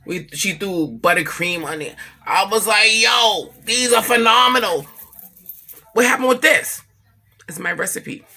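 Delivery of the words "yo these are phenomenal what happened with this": excited praise. Retold or imitated. Excited tasting of cinnamon buns.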